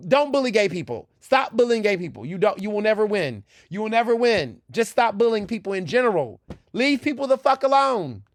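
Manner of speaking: emphatic admonition. Real, not acted. Telling bullies to leave gay people alone, emphatic admonition. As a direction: scold them in repeated high-pitched commands, climbing on the last.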